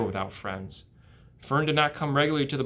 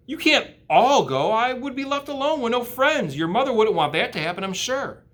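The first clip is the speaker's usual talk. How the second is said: higher, louder worried plea; anxious pig voice; 12 semitones higher, 6 dB louder than usual. Acted. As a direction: ask like a scared little pig. Wilbur pleading.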